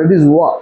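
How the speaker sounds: "war" meant as o'er, one syllable with no v. Shown as a demonstration. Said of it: "ও আ". ("war" মানে v ছাড়া "ও-আ")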